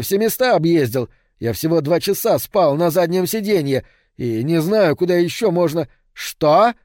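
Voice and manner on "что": sudden shrill-sounding yelp of shock, louder and higher; old woman yelling in disbelief; shriek. A narrator's reading. Old woman shrieking at Rico's news, loud yell. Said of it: "завопила старуха".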